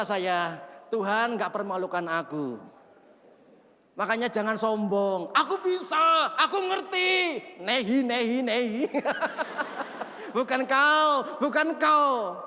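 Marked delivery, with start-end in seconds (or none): 5.3-7.4 mock boast. Mocking proud self.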